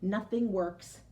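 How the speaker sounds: gentle read-aloud storytelling voice; reading a picture book to the class; story narration. A narrator's reading. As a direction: read it to a class of children, each phrase weighed.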